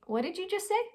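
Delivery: mock-offended what did you say; indignant comeback. Shown as a demonstration. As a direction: call out the rude remark, pitched well up. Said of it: "You can also say".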